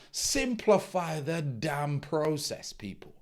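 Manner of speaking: slow, exasperated plea; frustrated outburst. Real, not acted. Coach venting at quitters, slow and exasperated. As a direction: drag it out in real frustration. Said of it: "getting a little bit, you know, emotional".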